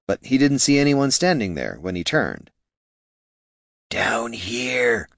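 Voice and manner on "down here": rough, raspy little voice. Acted. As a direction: rasp it up from below. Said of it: "said a raspy voice".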